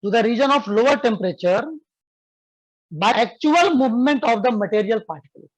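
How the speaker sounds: slow, clear dictation for students to write. Shown as a demonstration. Teacher dictating a definition to students, slow and clear. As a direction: spell it out slowly so they can copy. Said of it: "लिखो बाबू".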